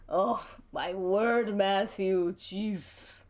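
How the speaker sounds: slow, exasperated prissy sigh; drawn-out fussy dismay; lightly voiced old queen. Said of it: "an old queen kind of voice".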